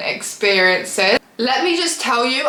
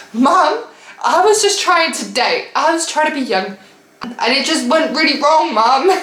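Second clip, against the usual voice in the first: higher, whiny plea; pleading to mum; 4 semitones higher than usual. Retold or imitated. Daughter pleading with her mum after the date, whiny and higher. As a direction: beg mum to understand.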